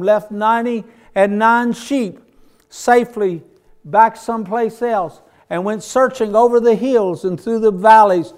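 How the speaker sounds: fervent preaching. Real, not acted. Preacher telling the congregation of the lost sheep, fervent preaching. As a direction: preach it out with punched key words.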